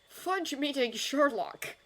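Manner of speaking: slow, high-pitched amazement; picture it in wonder, word by word; awed disbelief, drawn out high; wide-eyed. A narrator's reading. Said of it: "said Arthur wide-eyed".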